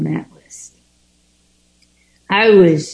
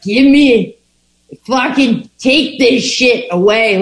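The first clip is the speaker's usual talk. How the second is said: desperate plea; 5 semitones higher than usual. Retold or imitated. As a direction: beg the sky to take it away. Pleading on the ground in graveyard.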